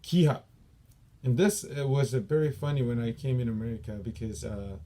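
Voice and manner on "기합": 기합 called out loud and high. Shown as a demonstration. Instructor demonstrating the yell to students, loud. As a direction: bark 기합 like a training yell.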